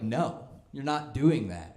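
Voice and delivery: mock stern parent, slow and emphatic; firm parental refusal. Parent forbidding a child's comedy career, firm and slow. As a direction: lay down the law slowly.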